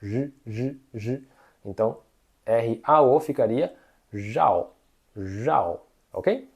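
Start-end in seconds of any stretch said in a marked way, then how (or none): 0.0-1.2 throaty buzzing j held in the throat; Mandarin r sound. Shown as a demonstration. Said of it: "ele vem na garganta". 4.1-5.8 jau with a buzzing throaty j; curled tongue jau; Mandarin rao. Shown as a demonstration. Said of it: "o R ele tem um som assim".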